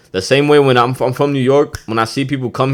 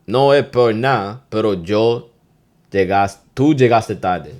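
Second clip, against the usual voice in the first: Dominican boss scolding, lightly acted; 4 dB louder than usual. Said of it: "let's say you're a boss".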